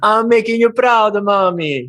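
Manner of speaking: high, put-on little boy voice; teasing mock child calling his mommy; childish son voice. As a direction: play a kid showing off to mommy. Playing the proud son.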